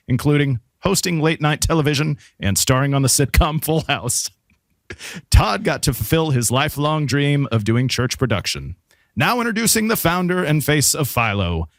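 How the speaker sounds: epic trailer narrator, lightly done; movie trailer voice. Acted. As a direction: read it like a dramatic movie trailer. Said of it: "read it in my, uh, you know, like, movie trailer voice".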